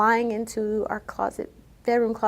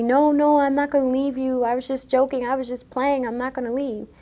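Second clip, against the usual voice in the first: higher, louder, pleading to calm him; retold frantic pleading, pitched up; frantic reassurance; 4 semitones higher, 4 dB louder than usual. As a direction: reassure him desperately so he stops the car. Placating him in the car.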